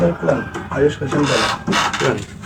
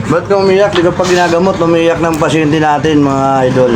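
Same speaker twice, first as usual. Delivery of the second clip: teasing announcement; 3 semitones higher than usual. Real, not acted. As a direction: announce it playfully, stretching the ends. Teasing patient, announcing to viewers.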